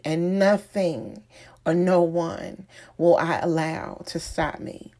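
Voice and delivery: emphatic exhortation in measured phrases; motivational preaching. Acted. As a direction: preach it with conviction, leaning on key words. Motivational preaching, plainer at sign-off.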